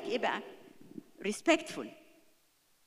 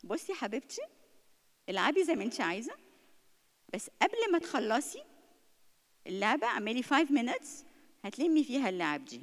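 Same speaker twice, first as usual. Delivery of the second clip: gentle mother. Shown as a demonstration. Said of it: "هتقولي لها".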